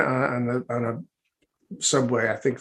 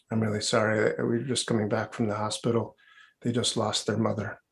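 understated acted sorrow; subdued apology; 2 semitones lower, 5 dB quieter than usual. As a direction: break sad news gently to a stranger. Grieving father explains himself in story.

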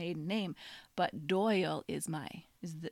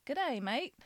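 tentative go at an Australian accent, pitched higher; 5 semitones higher than usual. Shown as a demonstration. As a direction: have a try at sounding Australian. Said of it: "Okay, you try".

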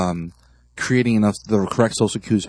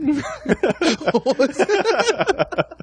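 laughing; much slower than usual. Real, not acted. Laughing at fake accent.

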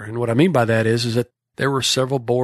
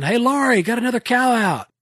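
calling out; 11 semitones higher than usual. Retold or imitated. Calling out across the pens.

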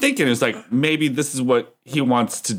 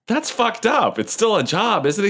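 a higher, lightly outraged professor; indignant professor; 7 semitones higher, slower than usual. Retold or imitated. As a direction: play the scandalized professor, pitched up. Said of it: "the professor person was just like".

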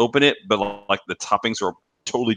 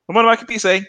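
mock ad caller; 12 semitones higher, 4 dB louder than usual. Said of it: "the other guy's like".

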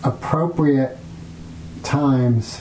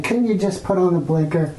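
irritated quote; 5 semitones higher, faster than usual. Retold or imitated. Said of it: "instead of saying".

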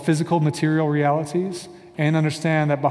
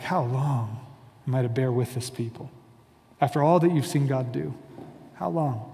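Moses crying out; 3 semitones lower, 5 dB quieter than usual. Retold or imitated. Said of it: "is crying out, like".

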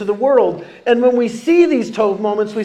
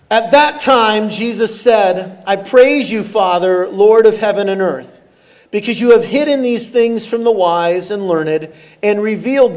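scripture reading. Acted. Pastor leading the church through Matthew eleven aloud, measured reading voice. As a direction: read it out like a pastor leading the room.

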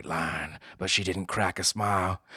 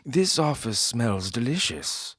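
snooty bored cat; 5 semitones higher than usual. Acted. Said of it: "said the cat".

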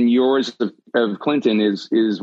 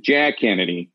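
lightly deeper Kennedy accent; a hint of a Kennedy impression, settling lower; Jack Kennedy; 6 semitones lower than usual. Shown as a demonstration. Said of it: "it's deeper and it's slower".

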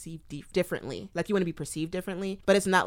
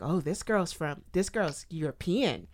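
mock posh British accent; 5 dB louder than usual. Friend voicing how strangers see her British accent. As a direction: put on a British accent to sound worldly. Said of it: "my British accent".

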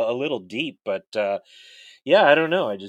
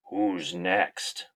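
gravelly voice; 4 semitones lower than usual. Acted. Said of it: "In a gravelly voice, he calls out".

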